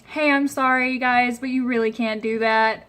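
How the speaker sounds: polite apology with a smile in the voice; gentle customer-service apology; smiling, friendly correction. Shown as a demonstration. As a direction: let the smile soften the telling-off. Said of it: "if you're smiling to someone and saying".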